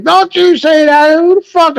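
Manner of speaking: high, yelling counselor rebuke; mock angry yell. Counselor scolding the husband, high mock yell. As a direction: snap at him like the angry counselor. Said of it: "He fucking yelled at me".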